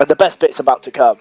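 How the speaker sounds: "come" landed with emphasis; stress on COME. Real, not acted. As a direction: lean on the word "come" at the end. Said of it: "Emphasis on the word come".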